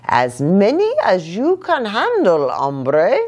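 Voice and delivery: put-on lightly done Spanish accent; a touch of Spanish accent. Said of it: "using his very best Spanish accent".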